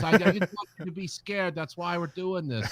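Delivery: put-on Long Island accent. Podcaster mimics the teller in a Long Island accent. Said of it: "this Long Island accent".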